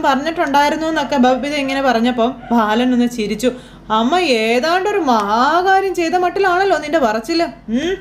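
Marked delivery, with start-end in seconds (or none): 4.0-7.9 mocking. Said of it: "കളിയാക്കി ചോദിക്കുമ്പോൾ".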